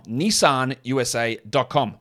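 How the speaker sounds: slow, put-on American accent for "Nissan U S A dot com". Shown as a demonstration. Host repeats the sponsor web address for listeners, American accent. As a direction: say "Nissan" the American way, slowly, as a translation. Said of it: "for those of you who want a translation".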